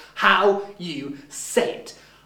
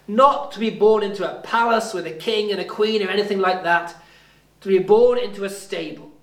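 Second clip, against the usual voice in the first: prayer. Acted. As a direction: pray it gently to God. Leads a prayer.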